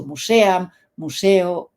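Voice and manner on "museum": "museum" said as mu-se-am; mispronounced museum. Shown as a demonstration. Teacher showing how some people still say it, mispronounced museum. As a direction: say "museum" with Spanish vowels, mu-se-am. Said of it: "Hay gente que todavía diciendo".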